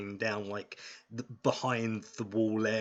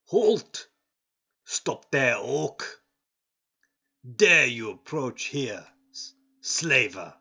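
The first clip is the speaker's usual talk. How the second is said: guard shouting halt; 3 semitones higher, 7 dB louder than usual. Acted. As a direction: bark it down from the wall like a wary guard.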